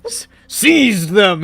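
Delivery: high, slow, stuttering triumph; triumphant. Acted. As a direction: savour the capture, proudly. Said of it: "he said triumphantly".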